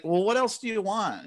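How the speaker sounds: imitating an exasperated reply to support. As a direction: demand it in mock disbelief. Exasperated retort to support staff.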